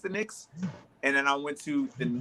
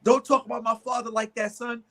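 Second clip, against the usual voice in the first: offended fan; 5 semitones higher than usual. Retold or imitated. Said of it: "this was his exact words".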